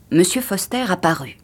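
ordinary delivery

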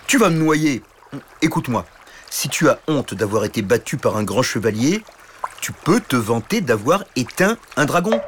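lightly voiced friendly dragon; dragon advising. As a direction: cheer the knight up.

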